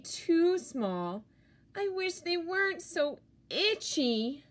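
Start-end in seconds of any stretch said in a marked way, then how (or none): 1.8-4.4 itchy monster. Acted. Monster speaks about itchy pants.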